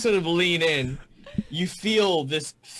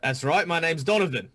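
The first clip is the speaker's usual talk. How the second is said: Australian tough guy; 3 semitones higher than usual. Acted. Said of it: "the Hobgoblins in my world are Australian".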